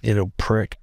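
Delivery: light mock English accent; a playful English accent insult. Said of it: "If you do it in an English accent".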